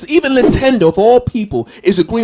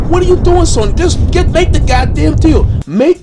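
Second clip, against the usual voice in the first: exploding rant; 7 semitones higher, 4 dB louder than usual. Real, not acted.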